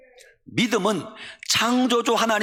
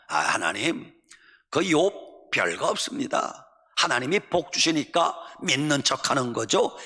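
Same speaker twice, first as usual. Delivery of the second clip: sneering Satan; 2 semitones lower than usual. Acted. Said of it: "이렇게 빈정거립니다". (비꼬는 사탄 말투)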